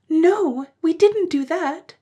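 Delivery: put-on high, loud slow child voice; high slow childish reply; gasping children. A narrator's reading. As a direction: admit it breathlessly like little kids. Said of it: "the children gasped".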